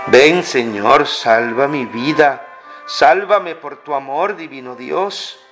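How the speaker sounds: normal talking voice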